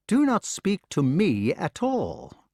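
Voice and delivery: high, slow, lifeless voice; lightly voiced toneless ghostly son. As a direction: say it like a dead thing. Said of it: "Its toneless voice".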